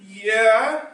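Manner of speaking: put-on child's yes. Grandson confirming he wants dinner, high and loud. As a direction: answer like an eager kid.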